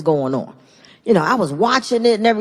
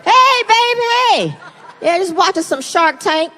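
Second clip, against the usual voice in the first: fake innocent; 3 semitones higher than usual. Covering up for wife.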